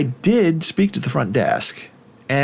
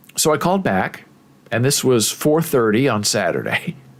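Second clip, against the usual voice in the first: normal talking voice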